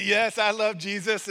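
broken English in an imitated Puerto Rican accent; clumsy, emphatic Puerto Rican impression; bad Puerto Rican accent. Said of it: "so in his broken English".

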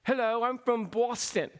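mock Yankee accent from Boston; put-on Boston twang; nasal Boston accent. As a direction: imitate a nasal Boston native. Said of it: "they spoke with a nasal, uh, accent".

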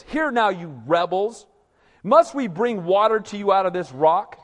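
Moses snapping at the rebels in frustration; angry Moses. Retold or imitated. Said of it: "here he gets frustrated".

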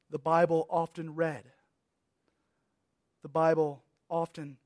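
measured reading with long pauses between phrases; reading aloud. Real, not acted. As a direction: read each phrase deliberately, letting it settle. Reads end of the excerpt.

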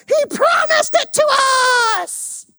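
high, crying shout of mock protest; hammed-up protest. One of two outvoted spies pleading, hammed-up wail.

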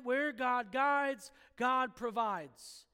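slow emphatic saying. Real, not acted. Preacher giving the congregation his motto, slow and emphatic. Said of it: "Said another way that I've said this phrase often".

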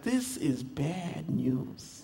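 mock dread; rueful regret. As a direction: drag it out with a regretful laugh. Instant regret after ordering.

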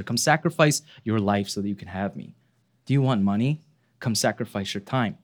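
lightly voiced money, coaxing softly; money personified. Money beckons us to come and sacrifice, softly coaxing. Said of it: "Money says to us".

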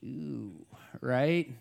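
hushed mock wince; mock distaste. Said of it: "parts of maybe Maine that you go".

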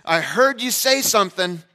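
playing his little son, earnest and eager; a five-year-old insisting on a memory; kid voice.

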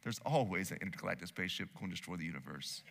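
calm the rookie down, low and quiet; Tommy Lee Jones calm. Retold or imitated. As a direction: veteran agent reassuring his partner, low and unhurried. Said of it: "Tommy Lee Jones says".

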